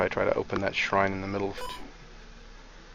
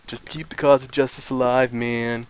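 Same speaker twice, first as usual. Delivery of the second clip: hippie voice. Acted. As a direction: play it like a chilled-out hippie. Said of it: "Galford's line in a hippie voice".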